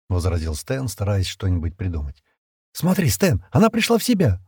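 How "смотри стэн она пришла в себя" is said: put-on higher-pitched excited girl's exclamation; exclaiming. A narrator's reading. Джемма tells Стэн she came round, excited exclamation. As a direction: call it out with sudden relief. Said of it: "воскликнула Джемма".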